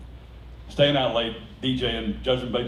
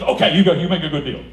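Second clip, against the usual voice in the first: loud laughing mock vendor; hammed-up vendor; imitating vendor; 4 semitones higher, 9 dB louder than usual. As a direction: give in cheerfully. Vendor concedes.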